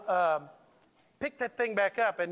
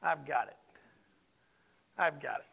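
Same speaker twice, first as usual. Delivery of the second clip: low, softer, with long pauses between; quiet reassurance; 6 semitones lower, 4 dB quieter than usual. Acted. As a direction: reassure calmly, letting each phrase settle. Voicing God's reassurance to Moses.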